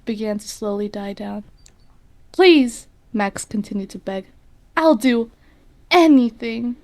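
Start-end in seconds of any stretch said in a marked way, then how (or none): 2.3-2.9 a high, loud begging please; child begging the demon, high and loud; desperate plea. Acted. Boy begs demon. 4.8-6.8 pleading. Acted. Boy begs demon.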